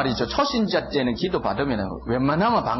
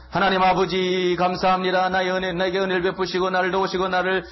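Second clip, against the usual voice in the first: praying voice; 6 semitones higher than usual. Retold or imitated. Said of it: "이렇게 기도하잖아요".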